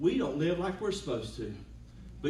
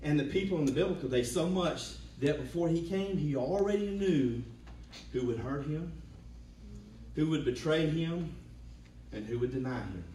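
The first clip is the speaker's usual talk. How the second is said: rising, swelling sermon voice; preaching. Acted. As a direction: preach it with building fervour.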